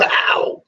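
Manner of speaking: imitated soul-singer "Ow!"; short mock soul shriek; a soul singer's yelp. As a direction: yelp it like a funk frontman. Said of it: "Like a famous soul singer".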